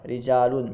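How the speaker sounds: "رجالن" with a light, thin r. Shown as a demonstration. Teacher shows students tarqiq, ra of "رجالن" read thin. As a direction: keep the opening r of "رجالن" slender. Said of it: "باریک پڑھ رہے ہیں".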